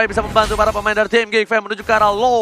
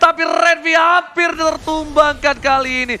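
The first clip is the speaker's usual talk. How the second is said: excited play-by-play; 6 semitones higher than usual. Real, not acted. Caster calling a tense fight.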